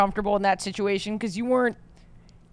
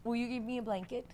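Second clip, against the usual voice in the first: needy bit voice; 5 semitones higher than usual. Pretend. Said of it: "It's for the bit".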